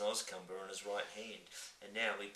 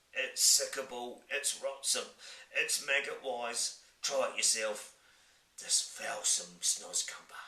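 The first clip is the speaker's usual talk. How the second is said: loud disgusted giant; 3 semitones higher, 6 dB louder, slower than usual. Acted.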